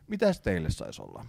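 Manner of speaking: composed, businesslike shop greeting; matter-of-fact. Retold or imitated. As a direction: serve the customer as if nothing happened. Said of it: "Tosi silleen niinku asiallisesti".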